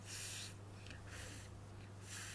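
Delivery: F as a bare hiss of air; Chinese f sound. Shown as a demonstration. Teacher demonstrates the fourth initial, only air. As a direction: blow "f" as in father, without voice. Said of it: "pronouncing the F in father".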